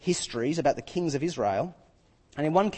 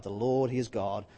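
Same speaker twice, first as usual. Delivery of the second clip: awed cry; 8 semitones lower, 8 dB quieter than usual. Acted. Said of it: "they fell prostrate and cried".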